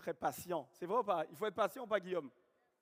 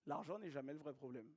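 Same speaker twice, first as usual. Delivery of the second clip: softer, lower echo of "L'argent n'est jamais le vrai problème"; quiet repeat; 4 semitones lower, 7 dB quieter than usual. Shown as a demonstration. Coach repeating the rule to the room, softly. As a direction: let it sink in, softly and lower. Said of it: "repeats it".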